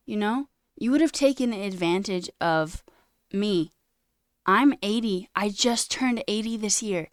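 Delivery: elder scolding the learners, loud and bitter; going off. Retold or imitated. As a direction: let her lay into them, wounded. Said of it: "proceeds to go off and be like".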